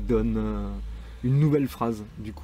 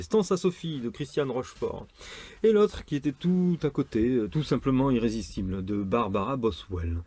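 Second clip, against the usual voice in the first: raised presenter voice, settling by the end; title announcement; 3 semitones higher than usual. Shown as a demonstration. Presenter introducing two novels to listeners, announcing voice. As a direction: announce the books with a showy lift.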